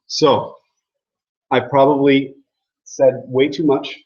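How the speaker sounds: normal talking voice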